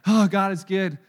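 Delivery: loud mocking parental pride; mock proud parent. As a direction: parody a boasting parent. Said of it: "You know".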